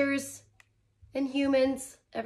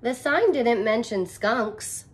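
put-on slow, louder little girl; girl's voice; 5 dB louder than usual. Reader voicing the girl to the class. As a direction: read the girl's line slowly and clearly.

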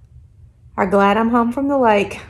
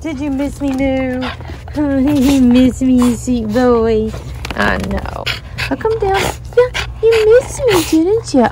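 tender pet talk. Real, not acted. Owner greeting dog back home, tender. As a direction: coo over the dog lovingly.

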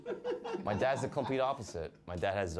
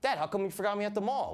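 put-on child voice; 9 semitones higher than usual. Child voice, higher.

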